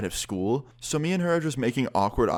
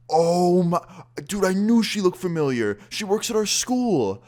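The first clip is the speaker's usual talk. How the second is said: high, loud panicked squeal; a friend suddenly recognizing the teacher, panicking; panicked realization; 9 semitones higher, 5 dB louder than usual. Retold or imitated. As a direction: freak out as it dawns on you.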